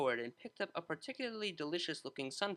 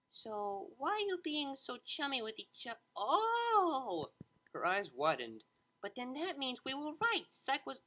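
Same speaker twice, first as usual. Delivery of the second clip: much higher, rising to an excited oh; sudden realisation; 9 semitones higher, slower than usual. A narrator's reading. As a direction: catch on mid-sentence. Bon Bon realising.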